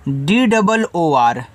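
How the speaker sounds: letters spelled out one by one, very slowly; slow letter-by-letter spelling. Shown as a demonstration. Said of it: "दूर".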